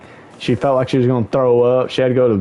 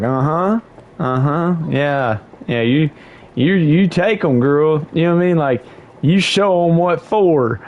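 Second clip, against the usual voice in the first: retold egging-on; 4 semitones higher than usual. Sibling cheering on a cocky drinking sister, retold encouragement. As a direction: playfully egg someone on. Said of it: "Why are you encouraging her".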